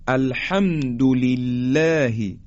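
الحمد لله with thin lam and fronted "læ"; slowly recited الحمد لله, keep لله light; light tarqiq. Shown as a demonstration.

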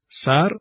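سر with a short front "a" as in "cat"; short open front vowel in سر; short fatha. Shown as a demonstration. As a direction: say سر briefly, mouth spread horizontally.

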